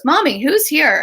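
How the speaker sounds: a hint of a curious toddler asking; child's voice. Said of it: "this little three-year-old goes".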